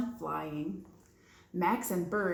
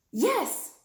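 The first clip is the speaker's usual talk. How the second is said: delighted; 10 semitones higher, 5 dB louder than usual. Acted. Bird delighted.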